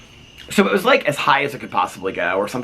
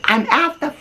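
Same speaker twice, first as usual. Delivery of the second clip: imitated screaming at husband. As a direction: imitate a wife ranting shrilly into the phone. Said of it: "She's, like, screaming at her husband".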